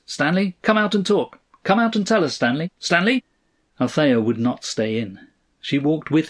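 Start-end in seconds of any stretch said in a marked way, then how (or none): 0.1-3.2 high, insistent calling out; a restrained shout, pitched well up; booming radio voice. A narrator's reading. Radio voice summoning Stanley out of the house, calling out. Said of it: "A radio voice boomed out".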